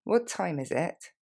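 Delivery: slow, clear model question; slowly. Shown as a demonstration. Teacher modelling the question slowly for learners. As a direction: space the words out for repeating. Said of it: "Sorry, ou encore excuse me".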